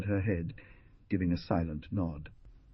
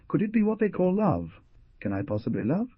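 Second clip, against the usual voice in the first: exclaimed; 11 semitones higher, 3 dB louder than usual. A narrator's reading. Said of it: "he exclaimed after a moment".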